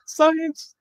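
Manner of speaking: very high, goofy shout of Science; mock triumphant. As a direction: declare it like a silly victory. Gives up on math.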